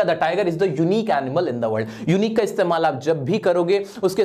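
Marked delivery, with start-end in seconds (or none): 0.0-2.1 slow, clear reading of the fixed sentence; corrected sentence read out. Shown as a demonstration. Teacher reads out the corrected sentence for students. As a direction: state the corrected version deliberately. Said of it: "ये बनेगा".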